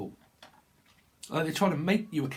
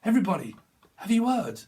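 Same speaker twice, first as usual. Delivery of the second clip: mock gossip announcement; 5 semitones higher, 3 dB louder than usual. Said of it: "she's like".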